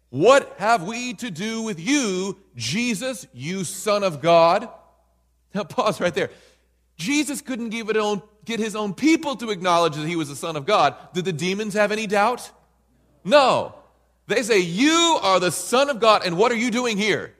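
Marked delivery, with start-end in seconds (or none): 0.1-4.7 loud cry. Acted. Demons crying out, read aloud. 14.6-17.3 high, loud demonic challenge; loud cry of recognition; demons crying out. Acted.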